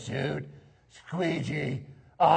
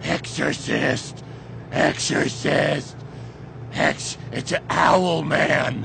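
slow shout; 2 semitones higher, 4 dB louder, slower than usual. Real, not acted. Shouting out at screen.

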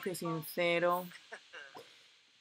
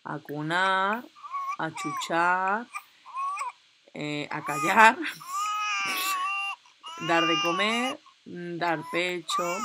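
frantic laughing; 7 dB louder, slower than usual. Real, not acted. Frantic reading of baby options.

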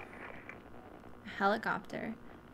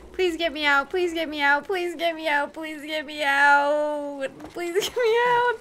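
repeated begging, stretched out at the end; desperate pleading. Real, not acted. Hates water, begs to get out.

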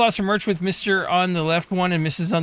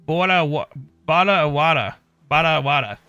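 British accent attempt drifting toward Kenyan. Shown as a demonstration. Streamer retrying the requested phrase, British accent gone astray. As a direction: try out "bottle of water" in a wobbly British accent. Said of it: "It sounds like a, like I'm from Kenya".

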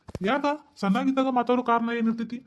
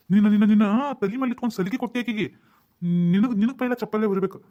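angry scolding. Acted. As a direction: scold her hard, voice raised. Father scolds wife over drunk daughter. (ಕೋಪದ ಗದರಿಕೆ)

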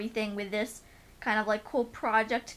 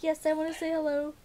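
voicing the dog; 6 semitones higher than usual. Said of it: "She's like".

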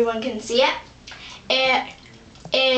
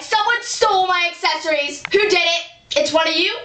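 indignant accusation; 4 semitones higher, faster than usual. Acted. Accuses contestants of stealing accessories.

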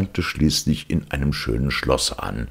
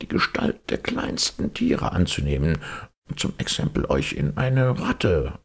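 sly doubting cat; 5 semitones higher than usual. Acted. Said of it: "sagte der Kater".

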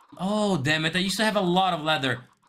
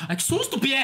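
scream into laughter; 6 semitones higher than usual. Real, not acted. Startled by sudden appearance.

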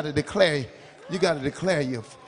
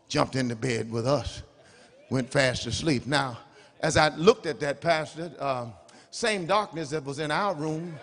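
quiet storytelling; 7 semitones lower, 5 dB quieter than usual. Real, not acted. Pastor telling the church about his little daughter, softly. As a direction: draw the church in close and hush.

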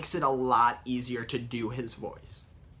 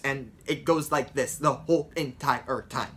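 chopped Doug voice. Shown as a demonstration. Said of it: "you chop up your voice".

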